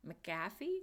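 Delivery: McAfee as muh-KAFF-ee, questioning rise; trying another pronunciation. Real, not acted. Streamer asks how to say McAfee, tentative pronunciation. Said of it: "How do you say it?".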